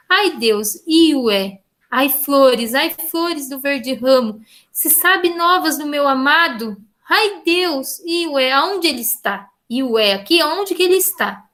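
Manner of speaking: a teacher reciting a troubadour poem; poem recital. Shown as a demonstration. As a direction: read it like a lament to the sea. Recites second cantiga.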